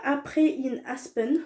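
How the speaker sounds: brand name said with an English accent, a bit slow. Real, not acted. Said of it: "désolée pour mon accent anglais".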